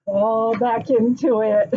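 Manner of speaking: slow, drawn-out release; drawn-out, playful surrender; playful letting go. Pretend. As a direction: stretch the words out as if sinking backwards.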